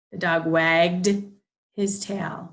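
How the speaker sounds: wagged said slowly and loudly, ending on a voiced d; teacher models a voiced d ending; slow model phrase. Shown as a demonstration. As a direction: stretch out the dog wagged. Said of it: "Has that D sound".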